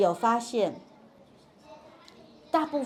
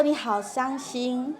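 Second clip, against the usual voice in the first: 先说情绪的重述; 4 dB quieter than usual. Shown as a demonstration. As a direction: draw out the feeling, then echo it calmly. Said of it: "就诀窍是情绪先放第一个". (放慢语速，先点出情绪再平稳重述)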